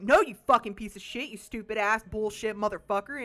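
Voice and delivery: loud mock rage at the player; a game character exploding over a simple no; angry outburst. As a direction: hurl the insults in a hammed-up fury.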